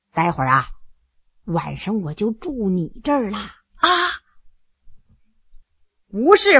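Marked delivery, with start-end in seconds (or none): 0.1-3.9 much lower and softer, teasing; sly intimate murmur. Acted. Heshen tells his concubine he'll stay the night, low and flirtatious. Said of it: "一笑说".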